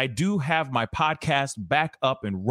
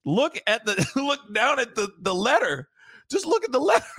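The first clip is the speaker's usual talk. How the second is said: high, giggling mock of the robber; mocking through laughter; 10 semitones higher than usual. Host mimicking the robber's line, laughing hard. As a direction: quote him while cracking up. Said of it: "somebody who's sitting there saying".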